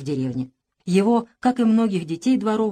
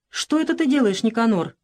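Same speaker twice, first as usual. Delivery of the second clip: curious question; 3 semitones higher than usual. Acted. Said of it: "с любопытством обратился".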